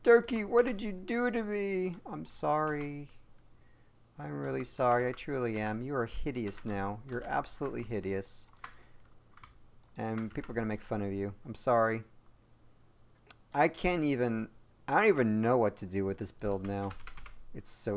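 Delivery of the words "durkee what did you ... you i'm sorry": a hint of a hurt little car pleading; voicing the sad vehicle. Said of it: "how sad this poor vehicle looks now".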